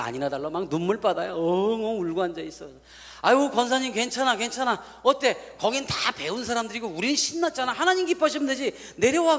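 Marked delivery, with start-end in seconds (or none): 3.2-9.4 higher, coaxing reassurance; comforting. Retold or imitated. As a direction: soothe a crying old lady gently. Pastor comforting crying grandmothers.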